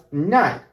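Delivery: Nike as one syllable "nike", rhyming with bike; Argentinian Nike. Shown as a demonstration. Teacher showing how Argentinians pronounce this word, silent e demonstration. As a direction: drop the final e of Nike. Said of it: "We pronounce this word as".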